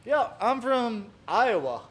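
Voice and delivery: high, slow put-on Iowan accent; a hammed-up Midwest Iowa voice; playful bad Iowan accent. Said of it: "best Iowan accent I can do".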